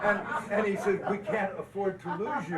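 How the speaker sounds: amused, laughing punchline. Real, not acted. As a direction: push the words out over your laughter. Laughing at his own story.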